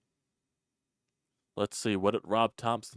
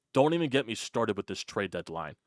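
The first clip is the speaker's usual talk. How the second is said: ordinary talk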